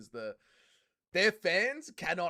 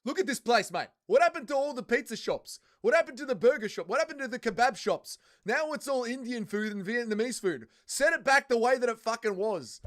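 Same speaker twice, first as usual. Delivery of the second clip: imitating an Australian bloke, loud and high; Aussie bloke rant; 7 semitones higher, 6 dB louder than usual. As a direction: do a mock Aussie bloke complaining. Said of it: "And he goes".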